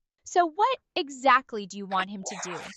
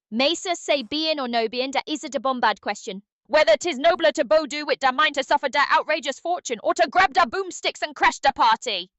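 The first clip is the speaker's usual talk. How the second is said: put-on Hamlet in a louder Gungan accent, "da" for "the"; 5 dB louder than usual. Streamer asked for Hamlet as Gungan Jar Jar, Gungan accent. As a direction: Jar Jar's Gungan accent mangling Shakespeare. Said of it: "Shakespeare with the Gungan accent".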